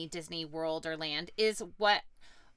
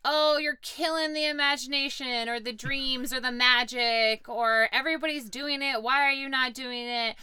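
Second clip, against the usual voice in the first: slightly raised, louder voice of objectors; mock pushback; 4 semitones higher, 3 dB louder than usual. Parent relays critics' pushback on a family conviction, lightly mocking. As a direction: lightly imitate people pushing back with complaints.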